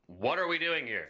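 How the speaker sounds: high, slow, drawn-out shout; shouted question. Acted. Player's character shouting as the fight starts, drawn-out shout. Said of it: "as I shout".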